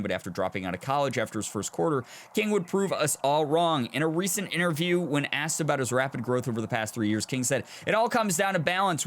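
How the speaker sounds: measured news-profile narration; article read aloud. Acted.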